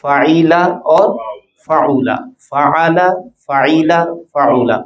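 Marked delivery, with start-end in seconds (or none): 0.0-0.7 फ़ाइला with an "i" vowel after the ain; zer on middle letter. Shown as a demonstration. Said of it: "ये लफ्ज यूं पढ़ा जा सकता है". 1.7-2.1 फ़ाउला with a "u" vowel after the ain; pesh on middle letter. Shown as a demonstration. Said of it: "ये लफ्ज यूं पढ़ा जा सकता है".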